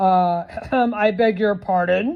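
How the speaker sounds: low rumbling growly voice. Percy, behind the bench by the sleeping animals, speaks up in a deep, growly voice. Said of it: "said Percy in a deep, growly voice".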